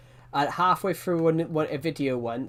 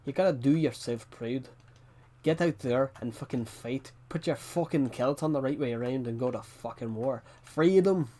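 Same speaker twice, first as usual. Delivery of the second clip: Scottish rallying cry. Pretend. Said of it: "Do proud".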